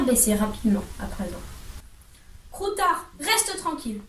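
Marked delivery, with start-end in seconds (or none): 2.5-4.0 high and soft, hushed urgent whisper. A narrator's reading. Ron, hiding under the cloak, whispers urgently to his rat. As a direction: hush the rat without being heard. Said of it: "chuchota Ron".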